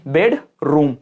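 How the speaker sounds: बेडरूम in two pieces, bed, then room; split into syllables. Shown as a demonstration. Teacher showing students syllables, word split in two. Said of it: "कितने टुकड़ों में तोड़".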